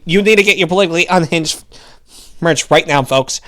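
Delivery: fast, rapid-fire pundit ad read; Ben Shapiro impression. Host reading the merch ad as a lightly voiced pundit. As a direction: rattle it off like a fast-talking pundit. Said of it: "I wanna read this for, like Ben Shapiro".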